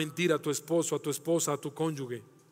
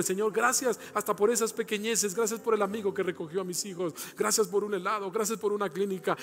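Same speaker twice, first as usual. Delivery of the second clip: gratitud creciente; 3 semitones higher than usual. Retold or imitated. Oración de gratitud en sermón.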